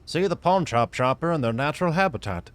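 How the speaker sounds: hushed, reverent wildlife narrator; nature documentary. Retold or imitated. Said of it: "like a Nat Geo special".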